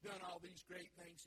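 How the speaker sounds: loud, self-satisfied prayer; hammed-up pious boasting; smug Pharisee. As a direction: pray like a show-off, slowly. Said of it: "He gets up there and he says".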